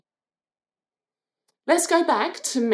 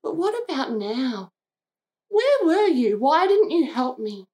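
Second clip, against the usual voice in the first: grieving cry; 2 semitones higher than usual. Acted. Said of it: "the grief and pain of her heart".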